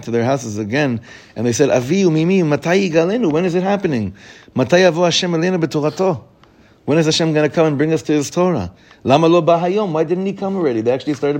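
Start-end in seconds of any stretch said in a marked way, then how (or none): 1.7-10.8 put-on higher, louder, eager kids pleading; eager children. Children begging parents to know when redemption comes, eager and insistent. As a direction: ask like impatient children who can't wait.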